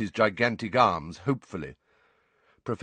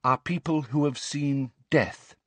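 lightly voiced pupil answering, higher; schoolgirl answer; 6 semitones higher than usual. A narrator's reading. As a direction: give the answer in a higher girl's voice. Hermione answers in class.

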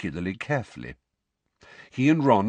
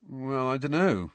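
uncertain; 4 semitones higher than usual. Acted. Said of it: "said Harry uncertainly".

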